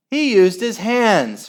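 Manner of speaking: high, loud outrage; protest. A narrator's reading. Margaret objecting to the handball, loud protest. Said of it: "protested Margaret".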